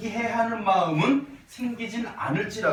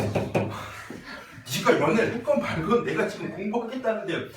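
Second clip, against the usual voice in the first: annoyed student; 4 semitones higher than usual. Retold or imitated. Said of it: "이 표정이야 지금". (짜증 난 학생 흉내)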